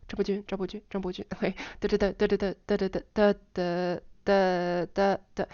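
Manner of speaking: rapid name then humming da da da; fast tone drill; said fast again. Shown as a demonstration. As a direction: rattle it off quickly.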